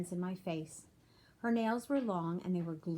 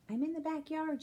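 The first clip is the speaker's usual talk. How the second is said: calling back; 9 semitones higher than usual. A narrator's reading. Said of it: "she called back".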